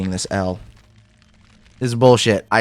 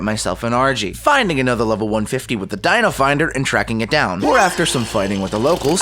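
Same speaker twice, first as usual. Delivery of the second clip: even, lightly told voice-over; walk the viewer through it like a recap; recap narration. Acted. Creator narrating his progress to viewers, calm voice-over.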